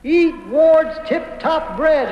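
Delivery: slow echoed reply; metallic flutter echo. Acted. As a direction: answer like a distant echo. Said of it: "first echo I ever heard".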